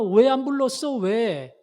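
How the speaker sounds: acted-out accusing protest; confrontational complaint. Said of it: "기드온 불러가지고 따지는 겁니다".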